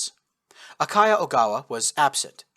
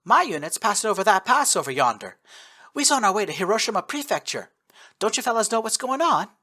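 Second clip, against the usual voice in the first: put-on thick Texan accent; 8 semitones higher, 3 dB louder than usual. A narrator's reading. Texan sniper explains her route in a thick Texan accent. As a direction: point over yonder, Texas style. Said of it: "thick Texan accent".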